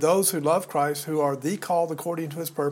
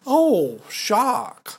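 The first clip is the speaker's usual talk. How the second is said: mock shock. Sarcastic feigned surprise at his point.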